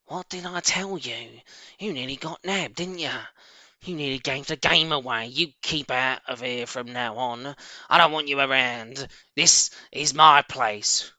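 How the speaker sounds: rat telling the fox off from his shelf; mildly voiced shrieking rat. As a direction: Rat scolding Mister Fox, lightly voiced. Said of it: "Rat stood ... and shrieked".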